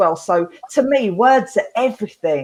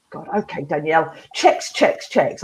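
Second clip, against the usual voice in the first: grudging dad; 5 semitones lower than usual. Retold or imitated.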